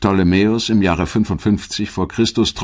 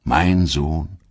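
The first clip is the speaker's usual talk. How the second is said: hushed, whispered dying plea to Brutus; Caesar's last words; much slower than usual. Acted. Stabbed Caesar whispering to Brutus, hushed and betrayed. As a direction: breathe the name Brutus as a betrayed man.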